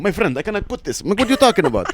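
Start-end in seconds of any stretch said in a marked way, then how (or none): 0.0-1.0 high-pitched protest of a cabbie; imitated cab driver, pitched well up; haggling cab driver. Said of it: "cab driver in a third world country negotiating". 1.2-1.9 high-pitched indignant haggler; imitated driver, incredulous and pitched up; haggling cab driver. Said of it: "negotiating with people".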